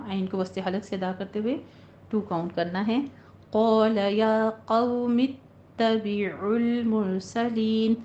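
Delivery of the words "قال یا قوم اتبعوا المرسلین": slow chanted tajweed recitation; Quranic recitation. Shown as a demonstration. Teacher recites the full verse for the class, chanted. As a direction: recite it melodically, drawing out the madd. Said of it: "teacher recites verse".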